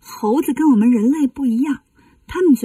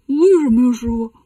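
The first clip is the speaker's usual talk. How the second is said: mildly indignant why, louder at first; puzzled protest; 3 dB louder, faster than usual. Acted. Bajie questions master after being turned down, puzzled protest. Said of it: "八戒奇怪呀".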